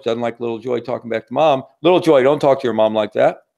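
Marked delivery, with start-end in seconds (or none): 1.8-3.4 dad scolding. Acted. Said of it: "Dad, George".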